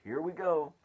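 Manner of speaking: high, loud call as the room lurches; alarmed cry. A narrator's reading. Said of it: "cried Miss Spider".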